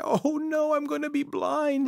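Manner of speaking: very high-pitched wailing lament; crying. Acted. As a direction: wail it out like a hammed-up cry. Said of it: "He started to cry".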